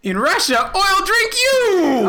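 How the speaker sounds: put-on heavy Russian accent menace. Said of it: "really bad Russian accents".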